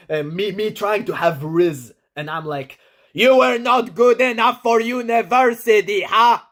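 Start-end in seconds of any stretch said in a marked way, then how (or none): 3.1-6.4 high, loud voice with clicky consonants; high pitch, clicky consonants. Shown as a demonstration. Showing his awkward flirting voice, high and clicky. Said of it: "this high pitch and the clicky consonants".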